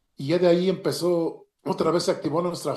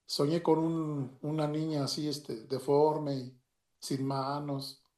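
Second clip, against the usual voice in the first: softly recounting a tearful nightmare, slowly; quiet, halting retelling of her distress, without real sobs; retold tearful wife; 5 dB quieter, slower than usual. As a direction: drag the words out softly, as if imitating her upset. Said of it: "llorando y me decía".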